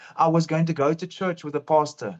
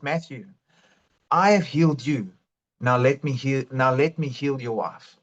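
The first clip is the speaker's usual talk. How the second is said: voice of the Lord; 5 semitones lower than usual. Retold or imitated. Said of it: "I heard the Lord say to me".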